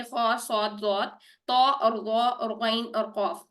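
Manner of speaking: slow heavy letter recitation. Shown as a demonstration. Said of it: "सात हरूफ जो हमने पहले देखे".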